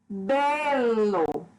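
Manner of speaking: "Belo" stretched, first syllable BE stressed. Shown as a demonstration. Teacher demonstrating tonic and unstressed syllables, "Belo" stressed on BE. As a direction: draw out Be and l in "Belo", falling on lo. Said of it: "Bé é a sílaba tônica".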